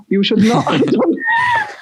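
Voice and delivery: very high, drawn-out mock scolding; exaggerated self-reproach. Speaker regretting the accent bit, mock-horrified reproach.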